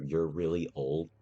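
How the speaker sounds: raspy smoker voice; smoker's voice. Acted. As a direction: rasp it out like a heavy smoker. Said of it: "You sound like a smoker".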